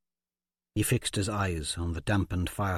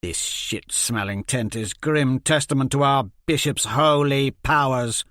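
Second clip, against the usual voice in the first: bitter scorn; 3 semitones higher, 4 dB louder than usual. Acted. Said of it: "the bitterness in his voice".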